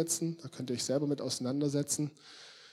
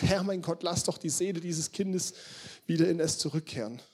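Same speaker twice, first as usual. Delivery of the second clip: mildly urgent plea, pitch raised; desperate prayer; 4 semitones higher than usual. Acted. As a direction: call on God with a touch of desperation. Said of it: "in seiner Verzweiflung hier". (leicht verzweifeltes Gebet)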